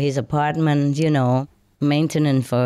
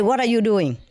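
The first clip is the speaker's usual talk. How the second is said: shocked scold; 6 semitones higher than usual. Retold or imitated. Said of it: "So I was so shocked".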